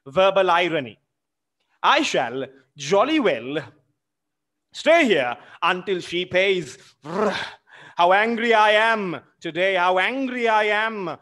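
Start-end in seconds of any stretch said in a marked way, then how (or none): 1.8-11.2 mildly angry reading. Acted. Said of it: "He's very angry".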